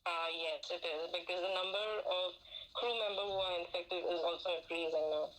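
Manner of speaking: muffled behind a face mask; talking through a face mask. Real, not acted. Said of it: "Speaking behind a mask".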